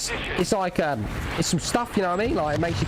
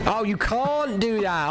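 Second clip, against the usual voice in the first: raised, slow mocking echo of a friend; mimicking a friend; 3 semitones higher, slower than usual. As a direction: echo the line back mockingly, slowly and higher. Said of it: "I said".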